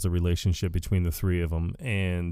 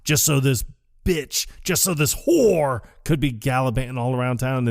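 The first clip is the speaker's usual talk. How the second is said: Walter rant impression; 2 semitones higher than usual. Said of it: "will be like".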